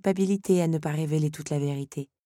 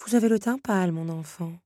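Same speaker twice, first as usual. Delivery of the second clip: worried; 3 semitones higher than usual. Acted. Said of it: "s'inquiéta-t-elle".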